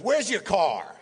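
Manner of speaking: high mock-insistent question; Mel Brooks. Mel seeing the guest out, mock-insistent asking. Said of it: "He goes".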